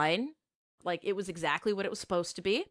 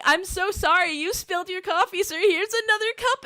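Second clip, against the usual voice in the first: much higher, louder saccharine waitress voice; fake sweet politeness; 11 semitones higher, 5 dB louder than usual. Waitress forcing sweet apologies to the man who burned her. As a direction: chirp it like a forced customer-service smile. Forced politeness to scalding customer.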